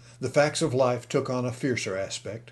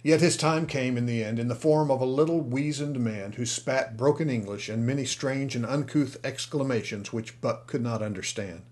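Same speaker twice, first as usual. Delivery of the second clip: usual speaking voice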